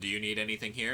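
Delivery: venomous, pointed, dripping with venom. Retelling asking the mother in a crowded aisle: imitating a venomous tone. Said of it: "like, venom in my voice".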